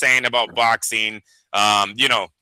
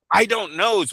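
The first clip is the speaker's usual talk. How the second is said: "I don't knows" pitched higher and quicker, smirking; quicker mock crooked-smile answer; 5 semitones higher than usual. Mocking an evasive official's answer, higher and quicker. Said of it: "with a lot of crooked smiles".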